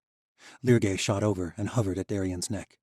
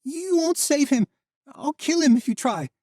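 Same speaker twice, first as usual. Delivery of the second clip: raspy threat; 9 dB louder than usual. Acted. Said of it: "his voice a faint rasp".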